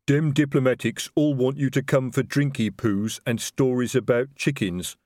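slow, heavy-tongued troll sergeant. Acted. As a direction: drag it out like a plodding troll. Troll sergeant voiced by narrator.

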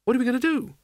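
high, urgent worried voice; anxious woman in a pinch; anxious question. A narrator's reading. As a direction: ask it in rising alarm, pitched well up. Isabel as disaster closes in.

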